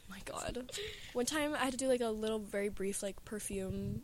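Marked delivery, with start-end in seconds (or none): 0.1-0.7 whispering. Real, not acted. Reacting to a memory.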